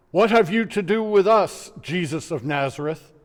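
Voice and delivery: usual speaking voice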